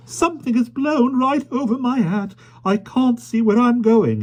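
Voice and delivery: put-on high, loud flustered old lady; fussy lady voice. A narrator's reading. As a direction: flap about in a high fluster. Miss Lark flustered in wind.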